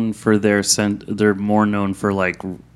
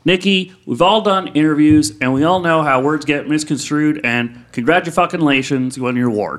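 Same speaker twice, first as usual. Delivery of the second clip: put-on lightly impersonated teenage pop star at an awards show; a pop singer; 2 semitones higher than usual. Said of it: "the Miley at the V M As".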